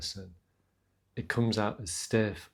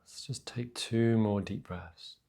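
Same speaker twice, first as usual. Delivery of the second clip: unhurried meditation voice with long pauses; guided meditation; 4 dB quieter than usual. Real, not acted. Teacher grounding listeners in breath and feet, guided meditation. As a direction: gently guide them into the breath.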